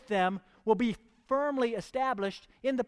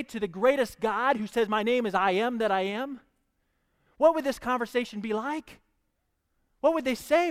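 eager, higher questions with a laugh; excited wonder; 4 semitones higher, 5 dB louder than usual. Real, not acted. Preacher asks the church to imagine the tent, excited and higher. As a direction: let the congregation feel your thrill. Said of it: "This should get you excited".

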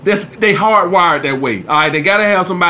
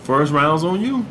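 soft, lower, smooth; quietly seductive line; 3 semitones lower, 4 dB quieter than usual. Shown as a demonstration. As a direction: say it low and easy.

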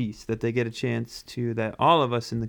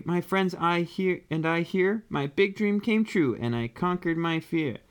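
higher little character voice; proud penguin voice; 4 semitones higher than usual. Acted. Perry tells friends his dream came true, high penguin voice. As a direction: speak up high as a small storybook hero. Penguin speaks after the race.

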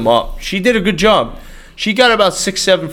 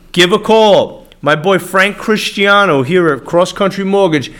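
punchy, pushy live sponsor pitch; hard-sell radio plug with swagger; cool Italian-guy ad read; 2 semitones higher than usual. Real, not acted. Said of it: "saying it in a real cool Italian voice".

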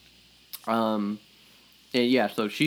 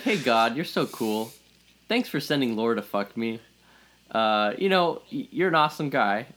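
dumb guy prayer. Retold or imitated. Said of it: "dumb guy prayer".

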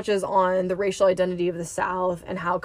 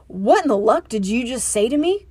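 growled; 3 semitones higher, 3 dB louder than usual. Acted. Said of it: "Chris growled".

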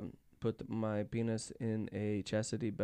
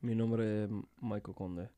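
Spanish pronunciation; 3 semitones lower than usual. Shown as a demonstration. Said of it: "You say, "My name is Mike".

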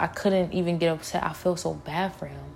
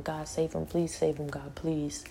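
soft, much quieter pleading prayer; retold tearful prayer; 7 dB quieter than usual. Recalling praying for her brother, a soft pleading prayer. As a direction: murmur a desperate plea to God. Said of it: "I could do nothing but cry and pray to God".

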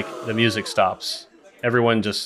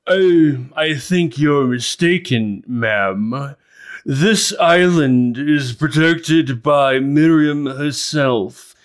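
higher, louder, slow, scolding voice; stern villager; 5 semitones higher, 7 dB louder, slower than usual. Acted. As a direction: correct her firmly from above. Villager contradicts the visitor.

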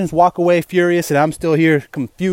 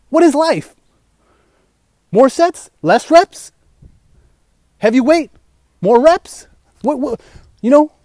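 overwhelmed panic questions; 5 semitones higher than usual. Retold or imitated.

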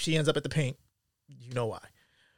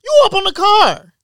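mocking the father; 13 dB louder, slower than usual. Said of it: "had the nerve to be like".

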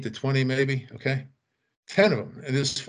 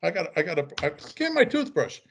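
higher, urgent mock panic; panicked bandmate; 5 semitones higher than usual. Bandmate realizing the bidet water, in mock panic. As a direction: imitate him yelping for his toothbrush.

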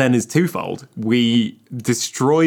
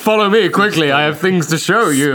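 put-on French accent; 5 semitones higher, 4 dB louder than usual. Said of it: "you have to put on a French accent".

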